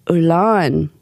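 "lawn" said as "ul-lawn"; ul before L. Shown as a demonstration. Host inviting listeners to try the L trick, ul before L. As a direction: put an ul in front of the L of "lawn". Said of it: "Do you want to try it?".

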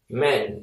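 "man" said like "men", mouth relaxed; relaxed vowel. Shown as a demonstration. Teacher repeating the plural sound, "man" with relaxed E like "men". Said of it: "이런 발음입니다".

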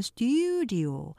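스튜디오 joined smoothly, three syllables, front stressed; linked studio. Shown as a demonstration. Teacher linking 스튜디오 after splitting it. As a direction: run 스튜디오 together as stu-dio. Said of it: "연결하면".

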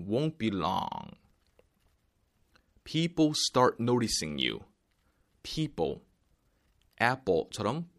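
normal talking voice

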